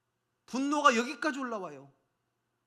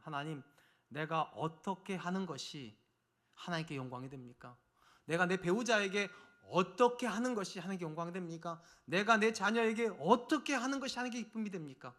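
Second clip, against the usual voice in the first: hushed prayer. Acted. Acted prayer to God. (조용히 간구하는 기도 목소리)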